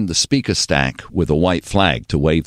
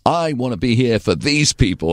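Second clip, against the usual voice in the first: a singer; 7 semitones higher than usual. Retold or imitated. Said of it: "he goes".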